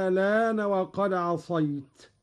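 الآن with second hamza turned into long a; ibdal with naql. Shown as a demonstration. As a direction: stretch the opening of الآن into a long "āā-lāna". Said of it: "فيها الإبدال".

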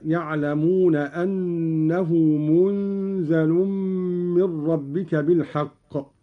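«مُنْزَل» with the nun made silent and the zay light, nasal hum on the n; reading of Qalun. Shown as a demonstration. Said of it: "هكذا". («مُنْزَل» بإسكان النون وتخفيف الزاي مع الإخفاء والغنة)

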